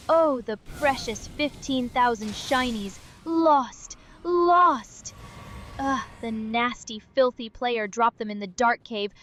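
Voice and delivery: lightly voiced greedy creature; a hint of a mournful Gollum. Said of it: "Gollum puking and being disgusted".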